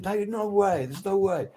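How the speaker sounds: high, insistent no way; emphatic refusal. Retold or imitated. Band refusing to get a singer, insistent. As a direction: band members flatly refusing the idea.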